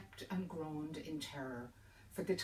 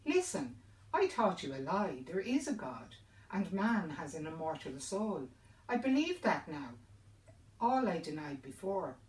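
fearful cry; 2 semitones higher, 5 dB louder than usual. Acted. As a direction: cry out, desperate to be believed. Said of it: "grew pale with fear and cried out".

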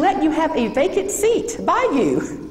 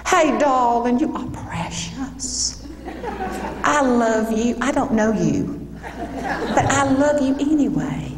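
drawling Southern belle. Retold or imitated. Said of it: "She talks like this".

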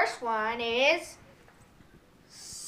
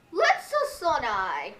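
Mario voice; slower than usual. Shown as a demonstration. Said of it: "But you guys speak".

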